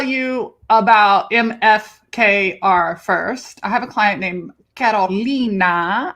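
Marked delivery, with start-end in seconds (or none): 4.8-6.1 Carolina in a Spanish accent, with a long swooping "lina". Shown as a demonstration. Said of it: "say it in my Spanish-speaking accent".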